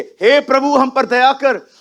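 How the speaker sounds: a woman calling to Jesus from afar, mock plea; mock crying out. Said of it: "अब वो चिल्ला रही है".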